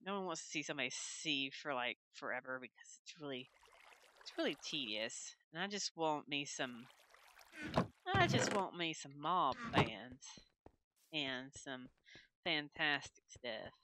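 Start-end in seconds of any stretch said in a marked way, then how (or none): 5.5-13.7 put-on slow, drawn-out American Southern accent. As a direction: lean into a lazy Southern drawl, just for fun. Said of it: "Bring out my southern accent".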